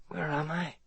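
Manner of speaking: hoarse, soft, weak voice. A narrator's reading. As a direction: rasp it out like a man waking from fever. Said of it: "Ethan asked hoarsely".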